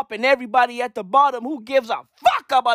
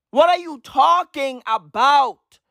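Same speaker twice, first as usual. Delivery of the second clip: ordinary delivery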